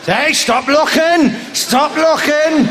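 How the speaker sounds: mock scolding. Acted scolding of a gawper.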